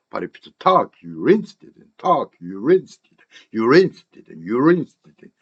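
"you interested in" run together as "yu-RINS-tidin"; linked repetition drill. Shown as a demonstration. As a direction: repeat with "interested" reduced to "instid". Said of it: "이렇게 무한 반복 연습해야".

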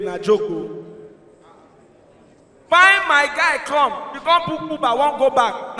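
usual speaking voice

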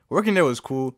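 ordinary talk, nothing marked

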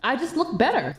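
put-on loud, haughty mean-girl voice; snobby mean friend. Snobby friend brushing off her old friend, loud and haughty. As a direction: look down on her, loudly.

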